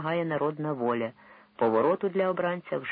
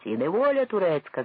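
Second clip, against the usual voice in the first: 1 many voices shouting; 5 semitones higher, 5 dB louder than usual. A narrator's reading. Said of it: "закричало разом багато голосів".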